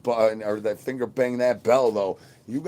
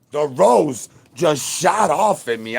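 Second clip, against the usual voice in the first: startled; 4 semitones higher, 8 dB louder, slower than usual. Real, not acted. Object flies at streamer.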